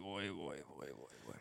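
oh dear, fading from soft to barely there; fading mock sigh. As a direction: let the pity die away into nothing. Sympathising with the bouncer story.

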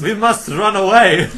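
loud hammy movie line; dramatic shout. Acted. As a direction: ham it up loudly.

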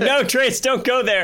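laughing, begging not to; laughing plea. Retold or imitated. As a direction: plead through giggles. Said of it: "I'm like".

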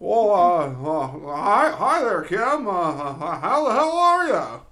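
high, loud hammed-up folksy drawl, halting; a hammed-up Jimmy Stewart greeting through laughter; Jimmy Stewart impression. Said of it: "random things to say in Jimmy Stewart's voice".

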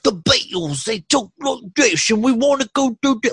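high, singsong Scouse in the style of a famous band; mock Liverpool accent. Shown as a demonstration. Host showing how British accents differ, mock Liverpool accent. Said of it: "and the accent, like".

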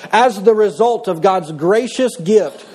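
slow, deliberate reading of "As the result of God's gracious gift"; slow solemn reading of "As the result of God's gracious gift"; slow scripture reading. Shown as a demonstration. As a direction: read "As the result of God's gracious gift" slowly, weighing each word. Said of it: "or as the result of God's gracious gift".

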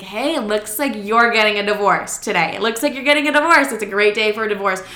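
quick, retold celebratory news; gleeful announcement. Daughter calling mom about divorce, mildly gleeful. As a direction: announce it brightly, picking up speed.

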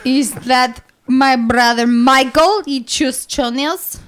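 put-on comic Eastern European, Russian-style accent; slow, muddled mock-Russian questioning. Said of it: "is that what they do in Russia?".

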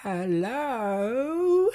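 high, soft, sing-song hello; sweet witch voice. A narrator's reading. Witch at the door calling sweetly, high and soft. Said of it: "came the sweet voice of the witch".

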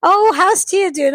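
hammed-up friendly Mister Waters; imitating the teacher. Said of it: "he was like".

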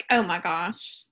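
Southern Alabama twang; Alabama accent. Shown as a demonstration. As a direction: keep it Alabama. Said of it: "I'm gonna stick to my Alabama accent".

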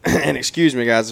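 slightly hoarse, sick voice. Real, not acted. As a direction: speak through a hoarse throat. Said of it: "if my, my voice is hoarse".

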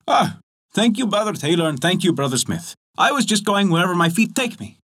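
the miller cheerfully thanks the tailor and smith; miller's reply. Acted. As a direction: answer easily, a cheerful wanderer. Miller answers.

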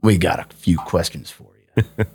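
imitated Southern cop voice; mock Southern police accent. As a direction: play a Southern lawman questioning someone. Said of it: "they had a Southern accent".

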